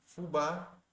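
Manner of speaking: "fubá" drawn out slowly, stress on the last syllable BÁ; stress on final BÁ. Shown as a demonstration. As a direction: stretch "fubá" and lean on the final BÁ. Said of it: "ela está na última sílaba". ("fubá" bem devagar, com a última sílaba BÁ tônica)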